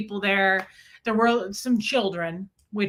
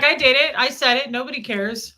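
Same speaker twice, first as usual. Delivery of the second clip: defiant; 3 semitones higher, 5 dB louder than usual. Acted. Voicing the shameless one who doesn't care, defiant. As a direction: toss it off unapologetically. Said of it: "She's like".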